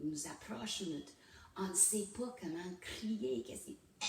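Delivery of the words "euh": voiceless strangled croak; stifled scream demo. Shown as a demonstration. Woman showing how an unpractised scream comes out, strangled. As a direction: imitate a scream that will not come out. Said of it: "ça sort comme ça".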